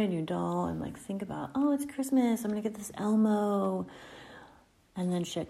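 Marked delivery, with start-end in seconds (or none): 1.5-3.9 lightly voiced excited kid, pitched up; mildly gleeful mock child voice; excited little child. Host imagining children thrilled about a new toy, lightly voiced excitement. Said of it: "They get so excited about a new toy".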